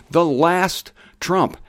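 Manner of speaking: the last trump drawn out slowly, word by word; slow, weighty emphasis. Shown as a demonstration. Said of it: "the last trump is the same as the seventh trump".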